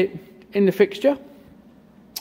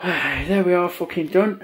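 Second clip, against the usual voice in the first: out of breath. Real, not acted. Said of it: "A bit out of breath".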